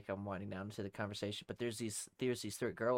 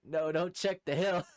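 high, loud comic dismay; mock pleading; 7 semitones higher, 6 dB louder than usual. Hiding man reacts to the searchers, loud mock pleading. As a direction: plead against it, hammed up.

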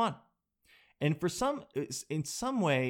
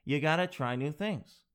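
mock New York accent; hammed-up New Yorker, r's dropped; Jen. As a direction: imitate a nagging partner with a light New York accent. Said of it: "sounds like she's from New York".

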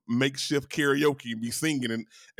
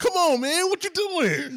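very high, loud whine; hammed-up pleading; mock anguished cry; 7 dB louder, slower than usual. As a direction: wail it like you're hurt.

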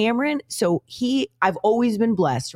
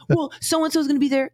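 put-on whiny kid; 9 semitones higher than usual. Mom imitates pleading son.

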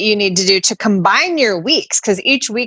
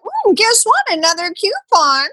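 much higher, singsong taunting announcement; mock gleeful company; 9 semitones higher than usual. Mimicking the company handing out coupons, in a high singsong taunt. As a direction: tease like a smug company. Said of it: "then be like".

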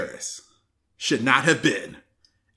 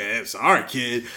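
lower, offhand shrug of a voice; shrugging God; 5 semitones lower than usual. Retold or imitated. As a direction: brush the kid off lazily. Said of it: "And he was like".

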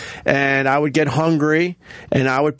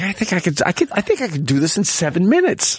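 retold bravado; 5 semitones higher than usual. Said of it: "I'm like".

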